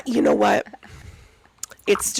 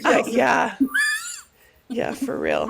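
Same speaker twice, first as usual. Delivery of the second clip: hoarse croaky sick voice; frog voice; 6 semitones higher, slower than usual. Real, not acted. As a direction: croak through a sore throat. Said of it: "best impression of a frog".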